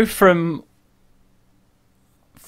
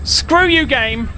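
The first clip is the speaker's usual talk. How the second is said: angry curse; 7 semitones higher, slower than usual. Real, not acted. Cursing the game.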